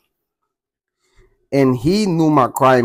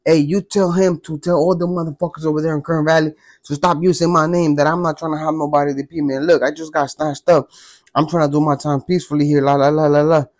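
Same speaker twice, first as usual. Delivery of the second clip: agitated rush, slightly raised pitch; pissed-off old man; 3 semitones higher than usual. Retold or imitated. Old man warning a messenger about his name, pissed off. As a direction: imitate an angry old man laying down orders. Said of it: "He was pissed".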